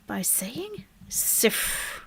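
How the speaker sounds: sifr said slowly, S-I-F-R with a rolled R at the end; Arabic pronunciation. Shown as a demonstration. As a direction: pronounce "sifr" slowly, stressing the final R. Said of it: "we pronounce zero in Arabic".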